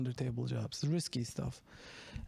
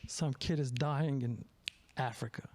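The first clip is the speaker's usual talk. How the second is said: put-on Southern accent. Comic telling his joke about a singer, in a mock Southern accent. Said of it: "gonna do a Southern accent".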